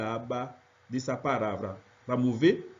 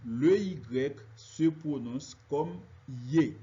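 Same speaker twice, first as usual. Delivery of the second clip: slow rule statement; slower than usual. Shown as a demonstration. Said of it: "les yeux".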